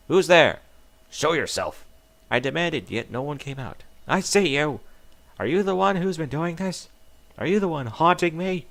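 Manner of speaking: loud, high, frantic rage; furious shout at someone behind the tree; frantic yelling. Acted. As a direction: yell at the hidden watcher in a panic. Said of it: "yelling in a frantic rage".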